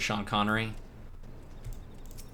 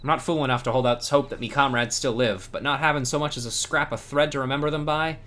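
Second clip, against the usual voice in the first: a hint of grief in a pirate voice; mournful pirate. Cat pirate mourns her fallen crew to the hero, lightly sorrowful. Voicing grieving pirate NPC.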